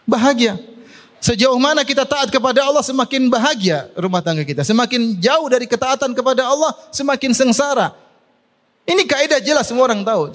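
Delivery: high-pitched sermon emphasis; emphatic preaching. Real, not acted. Preacher tells couples obedience brings happiness, emphatic preaching.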